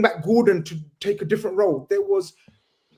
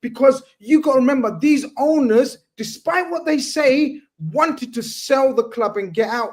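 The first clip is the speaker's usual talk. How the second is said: real worked-up emotion; 5 semitones higher than usual. Real, not acted. Host reminding the panel about the owners, emotionally insistent. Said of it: "getting emotional and getting involved".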